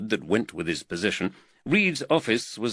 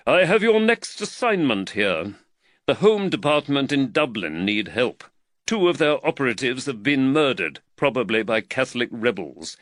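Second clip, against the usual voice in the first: slightly raised, earnest magistrate voice; the worried magistrate, lightly voiced a touch higher; voice of Reed; 4 semitones higher, 3 dB louder than usual. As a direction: magistrate fretting over costs, lightly voiced.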